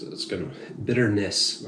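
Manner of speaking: slightly slurred from drinking; slurring. Real, not acted. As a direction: slur the words a little. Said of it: "I'm already slurring".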